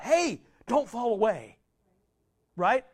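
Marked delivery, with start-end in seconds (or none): 0.0-1.6 gentle plea. Retold or imitated. Preacher mimics God lovingly warning believers, slow gentle plea. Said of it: "This is about".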